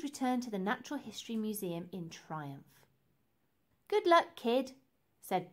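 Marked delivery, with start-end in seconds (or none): 3.9-4.7 higher and louder, feisty; a small girl acting tough; a bold little girl's send-off; Bella's voice. A narrator's reading.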